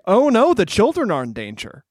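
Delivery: imitated worried outcry; Wonka alarmed. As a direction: act out concern for the children. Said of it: "Wonka is always like".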